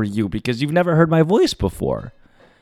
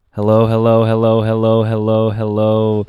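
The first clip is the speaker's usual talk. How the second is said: ringmaster; 3 semitones lower than usual. Acted. Showman podcast intro greeting.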